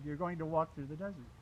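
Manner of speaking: "You're going to walk through the desert" as a firm statement; retold verdict, "desert" dropping at the end; statement, not question. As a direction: land "desert" on a falling tune, not asking. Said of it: "He didn't say it like a question".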